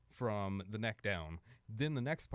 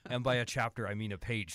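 lightly imitated actress, louder confession; Marina Sirtis; 7 dB louder than usual. Actress shrinking her research further, lightly imitated with more volume. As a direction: push it out louder, like a punchline. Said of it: "She's like".

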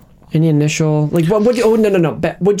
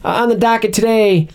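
raised, upbeat producer voice; mock announcement. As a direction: play the cheery showrunner. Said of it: "we're rolling in three, two, action".

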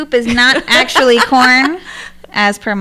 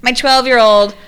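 higher exasperated self-mocking rant; 4 semitones higher than usual. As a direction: whine about your own blunders. Exasperated rant quoting herself.

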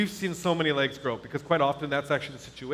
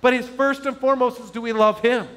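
raised, higher-pitched preacher's voice; preaching; 7 semitones higher, 4 dB louder than usual. Real, not acted. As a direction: preach it out to the congregation. Preaches to the congregation.

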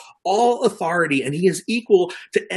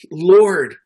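begging plea; 6 dB louder than usual. Retold or imitated. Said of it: "it's like he's repeatedly begging".

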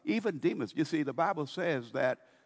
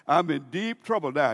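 alarmed demon; 5 dB louder than usual. Retold or imitated. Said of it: "let's put it down like this".

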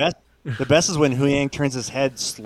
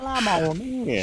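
slow creature voice; 10 semitones higher, slower than usual. Retold or imitated. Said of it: "voicing the whale".

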